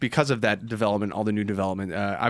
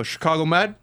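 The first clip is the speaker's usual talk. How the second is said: questioning call; 4 semitones higher than usual. Retold or imitated. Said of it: "Like that, right?".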